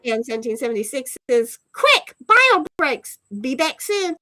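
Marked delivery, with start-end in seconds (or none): 1.7-4.1 urgent. Acted. Reading a hurried chat message.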